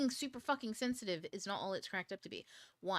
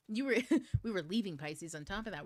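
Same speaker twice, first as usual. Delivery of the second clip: laughing. Real, not acted. Laughs while explaining Pisces.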